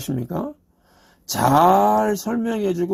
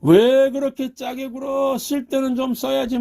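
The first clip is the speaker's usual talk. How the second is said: mock nagging about stinginess; grumbling husband; 7 semitones higher than usual. Pastor voicing a husband calling his wife stingy, light mock grumble. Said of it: "그런데 뭐".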